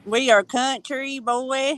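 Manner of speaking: Southern country talk, drawn out slowly; slow country drawl. Real, not acted. Proudly telling an accent fan we are country, slow Southern drawl. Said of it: "You get to talk slow to us".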